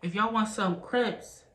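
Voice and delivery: slow improvised slogan with long gaps; attempted rhyming pitch. Vlogger retrying a slogan for viewers, slow halting rhyme attempt. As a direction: stretch it out, hunting for a rhyme. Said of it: "I tried".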